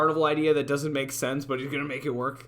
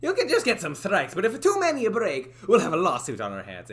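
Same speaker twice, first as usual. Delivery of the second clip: raised Italian-tinged boss voice; accented boss character; 3 semitones higher, 4 dB louder than usual. Acted. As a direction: lay down the rules in character.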